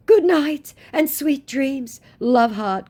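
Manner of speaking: high, slow mocking voice for his goodnight; scammer's goodnight message mocked high and slow; mock sweet scammer.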